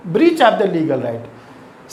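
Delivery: breach of the legal right drawn out very slowly word by word; slow dictation. Shown as a demonstration. Teacher dictating the meaning very slowly to students. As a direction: repeat it slowly so students can write it down. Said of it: "repeated for dictation".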